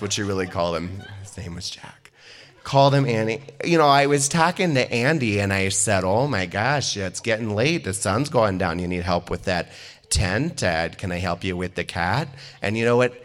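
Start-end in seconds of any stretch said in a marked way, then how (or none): 3.6-12.3 imitated South Dakota accent, rambling storyteller; lightly hammed-up South Dakota accent; thick South Dakota accent. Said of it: "she has a very thick accent".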